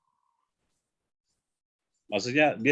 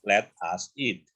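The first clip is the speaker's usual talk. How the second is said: slow full form; 3 semitones lower, slower than usual. Shown as a demonstration. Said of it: "Let's eat".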